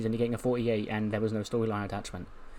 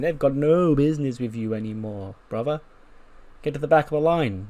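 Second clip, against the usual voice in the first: mildly raised, challenging taunt; retold confrontation; 3 semitones higher, 3 dB louder than usual. Apollo walks in on Bryan, lightly acted challenge. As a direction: challenge a rival, voice lifted a little.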